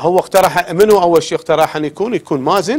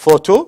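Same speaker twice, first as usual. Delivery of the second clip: Photo with PHO hit loud; stress on first syllable; 8 dB louder than usual. Shown as a demonstration. Teacher showing students where stress goes, loud PHO in Photo. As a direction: punch the opening of Photo. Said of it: "تسوي الستريس بالكلام".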